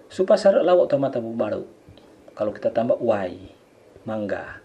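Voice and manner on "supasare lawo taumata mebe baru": Supasare lawo taumata mebe baru said quickly; faster. Shown as a demonstration. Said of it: "Kita percepat".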